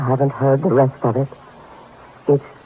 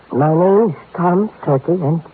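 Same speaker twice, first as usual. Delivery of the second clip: fearful confession; 4 semitones higher than usual. Acted. Timid client confessing a death threat to detective, anxious. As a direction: force out the dreadful secret, rising at the end. Nervous client blurts his fear.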